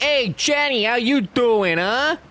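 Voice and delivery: a hint of Forrest calling out. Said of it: "He's like".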